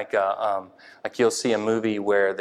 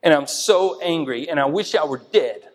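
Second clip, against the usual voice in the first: sulky Jonah; 4 semitones higher than usual. Acted. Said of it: "he said".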